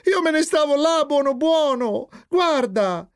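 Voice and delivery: put-on high-pitched tearful child protest; sobbing. A narrator's reading. Jeep pointing mother to the empty armchair, acted sobbing. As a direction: whine innocence, acting near tears. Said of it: "spiegò Jeep singhiozzando".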